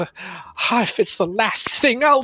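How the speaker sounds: a hint of a hiss, then a vow of revenge; hissing cat creature. Vengeful cat creature hisses at the player, mild hiss. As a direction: hiss it out, then slow the blame. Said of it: "hisses and says".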